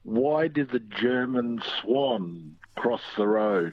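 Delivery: slow, measured riddle delivery; joke setup. Pretend. Caller interjects with a joke for the host, slow deliberate setup. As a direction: draw out the riddle word by word.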